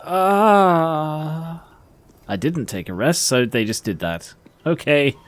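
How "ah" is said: drawn-out mimicked "aah", pitched up; imitated group "ah". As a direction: mimic everyone letting out a long "aah". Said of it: "did everyone just go".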